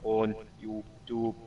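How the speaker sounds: flat, low robotic monotone; flattened pitch. Shown as a demonstration. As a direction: read it like a robot.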